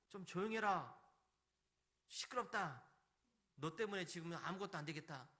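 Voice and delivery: acted irritated hushing; scolding crowd. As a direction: shush him as an annoyed bystander. Voicing the crowd silencing the beggar.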